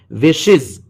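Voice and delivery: short i and buzzing z ending विशेस; correct "iz" ending. Shown as a demonstration. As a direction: say विशेस as "wish-iz". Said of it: "ईएस को इज पढ़ेंगे".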